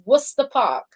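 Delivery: "Worcester" said as WUSS-ter; two short syllables for "Worcester": WUSS-ter; correct pronunciation. Shown as a demonstration. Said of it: "it's pronounced like that".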